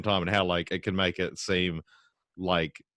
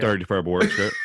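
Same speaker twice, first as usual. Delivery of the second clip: Southland rolled R. Shown as a demonstration. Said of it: "it's hard to do".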